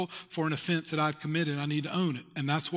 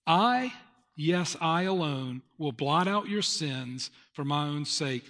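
lifted I, then slow solemn reading; scripture reading; 2 semitones lower, slower than usual. Acted. Pastor voicing God's words from Isaiah, slow and solemn. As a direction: read God's words slowly and weightily.

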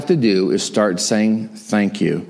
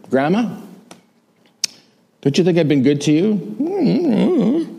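higher, slow, pleading to grandma; pleading question; 9 semitones higher, slower than usual. Retold or imitated. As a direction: drag it out like a hurt grandson. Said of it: "I said to her".

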